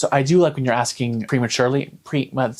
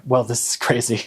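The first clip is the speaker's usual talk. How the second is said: ordinary talk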